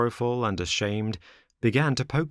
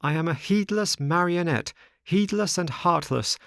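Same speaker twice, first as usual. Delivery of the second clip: put-on high-pitched boyish puppet lamenting his mistakes; regretful marionette; 7 semitones higher than usual. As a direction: lament it earnestly in a higher voice. Pinocchio's long regretful speech.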